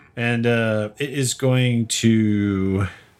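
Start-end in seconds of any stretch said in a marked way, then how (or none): none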